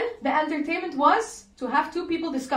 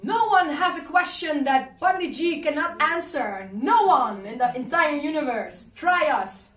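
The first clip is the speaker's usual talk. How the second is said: mock proud shout; 4 semitones higher, 4 dB louder than usual. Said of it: "his disciples were screaming".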